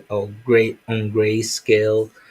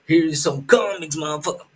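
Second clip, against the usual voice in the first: mock triumphant taunt; 5 semitones higher, faster than usual. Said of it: "I'll be like".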